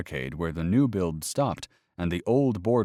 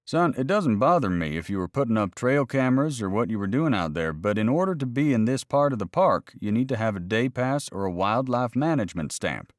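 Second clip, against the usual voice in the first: lecturing warden; 4 semitones higher than usual. Acted. Narrator voices the game warden.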